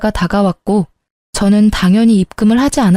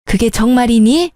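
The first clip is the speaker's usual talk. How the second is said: a lightly voiced older woman, pleased and surprised; gasping with joy at good news; delighted older mother; 3 semitones higher than usual. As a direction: coo over the good news like a happy mother.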